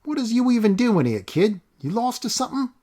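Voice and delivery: high, leering rough voice; rough stranger menacing a lost boy; sinister thug. Acted. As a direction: lean in menacingly. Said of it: "with a bit of a sinister expression".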